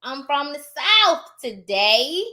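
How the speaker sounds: South stretched out with a final F; slow down and end South on an F; South as "Souf". Shown as a demonstration. Vlogger declares her origin today, South pronounced "Souf". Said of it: "It's S O U F".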